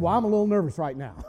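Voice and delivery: understated comic nerves; mock nervous. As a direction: admit it hurriedly and meekly. King's sheepish nervous reply.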